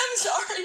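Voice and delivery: very high, tearful, crying through the words. Telling another speaker about estranged family, crying while talking. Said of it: "You don't have to apologize for crying".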